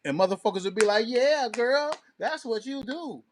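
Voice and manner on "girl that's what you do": ordinary talk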